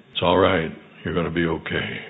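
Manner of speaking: put-on calm, softly reassuring the boy; a touch of tender comfort; gentle reassurance. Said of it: "continued to reassure him".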